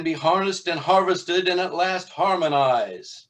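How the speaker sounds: high priest calling on his storm god; preaching high priest. Acted. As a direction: declaim it like a storm cult prophet. High priest's sermon continues.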